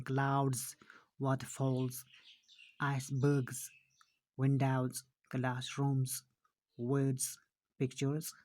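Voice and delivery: measured word list, plurals like क्लाउड्स and विंडोज़ ending in Z; one word at a time, voiced endings from क्लाउड्स to पिक्चर्स; final Z sound. Shown as a demonstration. Teacher reading plurals to pupils, final Z in क्लाउड्स to पिक्चर्स. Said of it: "जो मतलब हम बॉयज पढ़ते हैं".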